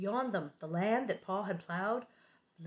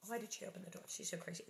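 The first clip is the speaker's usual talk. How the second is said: much softer, half-whispered; hushed aside; 13 dB quieter, much faster than usual. Real, not acted. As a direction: mutter it as a private aside.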